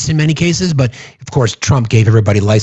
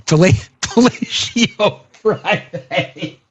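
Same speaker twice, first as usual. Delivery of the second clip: laughing; 9 semitones higher, 3 dB quieter, much slower than usual. Real, not acted. Cracks himself up at own joke.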